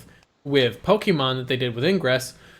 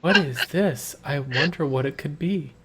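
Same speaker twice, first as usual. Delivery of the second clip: excitedly deadpan. Retold or imitated. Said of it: "excitedly deadpan".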